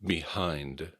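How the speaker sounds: "Behind." with an audible H; a careful "Behind." that keeps the H; clear H sound. Shown as a demonstration. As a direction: breathe out the H in "Behind.". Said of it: "struggle with the H sound in this word".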